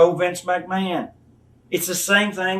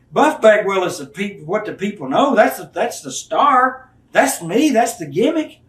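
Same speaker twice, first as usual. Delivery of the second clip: cocky insistence; 4 semitones higher, 3 dB louder than usual. Retold or imitated. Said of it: "He says".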